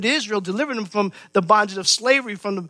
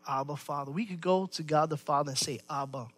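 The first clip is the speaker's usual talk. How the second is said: very soft, low, intimate address; tender endearment; 5 semitones lower, 11 dB quieter than usual. Acted. Believer calling God the Father Abba, tenderly. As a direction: say it gently, as to a beloved father. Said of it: "Term of endearment".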